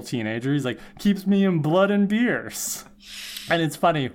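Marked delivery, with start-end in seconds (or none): 1.0-2.8 put-on slow, smug teen boast; hammed-up proud vampire boast; mock proud Spike. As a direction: brag like an irresponsible teenager. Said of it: "all proud of himself".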